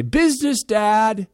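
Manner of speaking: high, stiff mocking daughter voice; mock business voice. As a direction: imitate the daughter teasing her dad. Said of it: "she'll come downstairs ... and say".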